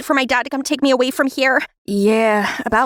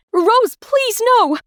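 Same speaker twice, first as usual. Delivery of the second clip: tearful plea; 9 semitones higher, much slower than usual. Acted. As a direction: beg through tears. Mother pleading, crying.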